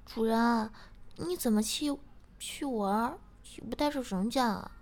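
high, playful and pouting; coy girlfriend voice. Acted. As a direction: tease him in a pouty voice. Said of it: "做了个鬼脸，边说".

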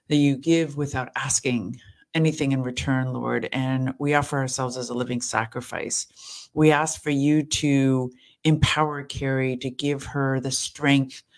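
earnest, evenly pitched prayer; spoken prayer. Real, not acted. Praying over a tired caregiver, earnest spoken prayer. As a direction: lead the group steadily in prayer.

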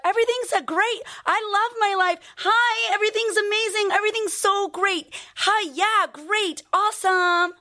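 high, bright chirpy fake-happy voice, pitched well up; fake cheerful mask. Mocking a woman who hides her pain behind forced cheer. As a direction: chirp it like someone pretending life is perfect. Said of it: "Are you like".

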